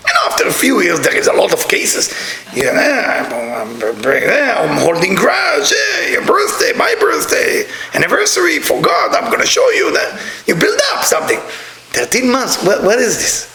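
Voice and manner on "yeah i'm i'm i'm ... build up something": much higher, shouted spouse reeling off grievances; mock grudge-holder. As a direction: play the resentful spouse listing every slight. Acting a spouse's grudge list.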